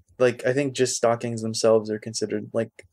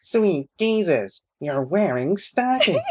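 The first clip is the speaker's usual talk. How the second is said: high, slow nerd voice; nerdy voice; 7 semitones higher, slower than usual. Acted. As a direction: squeak it out like a geek. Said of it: "Can you say it in the nerdy voice?".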